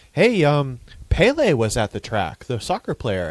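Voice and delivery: high, loud, hammed-up reporter; mock eager interviewer. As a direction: play the eager trackside reporter. Imitating an interviewer's question.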